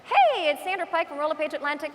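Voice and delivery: put-on bright video intro with a Newfoundland accent. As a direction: do a chirpy video greeting in a Newfie accent. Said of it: "I sound like a newfie".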